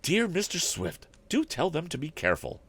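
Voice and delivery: a worried housekeeper pleading with the inventor; housekeeper's voice. A narrator's reading. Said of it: "a woman's voice chimed in".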